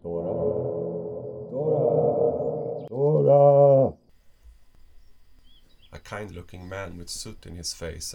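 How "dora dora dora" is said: calls building to a loud, high shout; rising from a call to a full shout; calling out urgently. Acted. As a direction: shout the name to rouse someone. Calling to Dora, who passed out.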